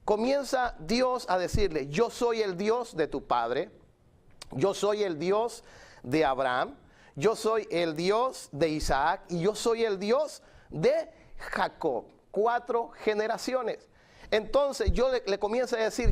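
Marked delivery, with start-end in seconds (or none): 1.9-12.0 measured quote with pauses between each name; slow, deliberate proclamation. Retold or imitated. God naming himself to Moses, slow deliberate proclamation. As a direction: proclaim each line slowly, setting the names apart.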